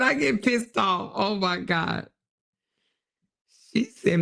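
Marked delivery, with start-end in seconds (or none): 0.0-1.1 drawn out, weighty; slow emphatic repeat. Retold or imitated. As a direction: lean on each word slowly.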